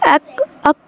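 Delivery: अक short, with a light काफ; thin kaf. Shown as a demonstration. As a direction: keep the vowel and k of अक thin, not full. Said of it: "बारीक पढ़ना है".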